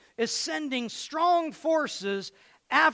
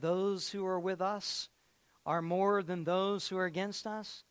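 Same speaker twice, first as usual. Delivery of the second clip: quiet reminder; 4 semitones lower, 7 dB quieter than usual. Shown as a demonstration. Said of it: "Remember, the prophet said".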